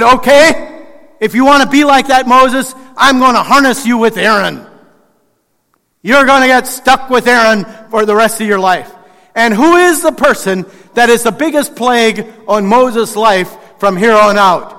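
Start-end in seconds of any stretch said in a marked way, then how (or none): 0.0-8.9 mock anger. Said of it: "Then the Lord becomes angry with Moses".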